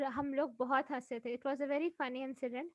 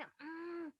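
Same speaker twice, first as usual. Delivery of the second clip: soft, tight disapproving hum; a quiet tense judgmental mm; tight judging hum; 2 semitones higher, 9 dB quieter, much slower than usual. Shown as a demonstration. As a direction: hum tightly through pressed lips, judging. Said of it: "वाला ऐसे tight वो करके".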